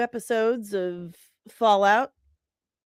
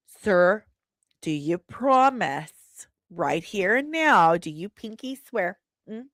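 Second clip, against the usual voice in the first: mock committee questioner; 3 semitones higher than usual. Host parodying senators questioning an executive, mock solemn questioning. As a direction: lightly mimic a questioner demanding a pinky swear. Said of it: "what they're asking him here in this clip".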